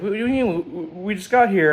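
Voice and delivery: mock a mother's surprised objection; mom's protest. Mom protests at early departure.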